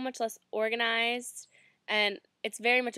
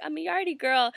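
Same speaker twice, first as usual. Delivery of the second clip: excited boast; 5 semitones higher, 4 dB louder than usual. Retold or imitated. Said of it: "so I'm all excited".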